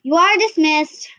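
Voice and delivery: a touch of tired teacher dismissing class; weary teacher. Acted. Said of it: "The teacher sighed".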